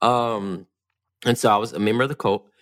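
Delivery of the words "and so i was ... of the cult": casual. Real, not acted. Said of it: "you said it so casually".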